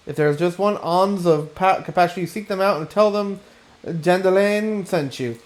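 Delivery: hammy theatrical lament, lightly voiced; a hint of a pompous artist overplaying his woe; melodramatic aesthetician. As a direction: wail your injustice like a ham actor. Reads Dandelion's melodramatic lament.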